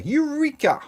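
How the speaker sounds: high, excited shout of Eureka!. Retold or imitated. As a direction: cry Eureka! like a triumphant discovery. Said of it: "said to have shouted in the streets".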